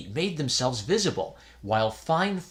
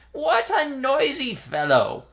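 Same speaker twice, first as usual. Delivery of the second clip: put-on high, slow, grumpy old priest; grumpy old man; 13 semitones higher, 4 dB louder than usual. A narrator's reading. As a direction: grumble at being woken. Woken priest grumbles.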